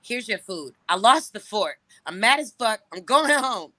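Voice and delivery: retold fed-up announcement, building; full attitude. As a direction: serve it with attitude, pitch creeping up. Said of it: "with all the attitude".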